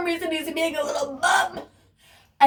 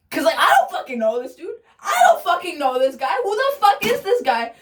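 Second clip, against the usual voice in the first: exasperated, raised voice; indignant outburst; 4 semitones higher than usual. Real, not acted. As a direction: vent about the stranger.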